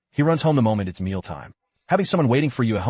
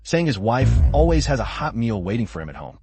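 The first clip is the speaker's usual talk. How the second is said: overacted anime dub. Coworker gushing over manager's wife.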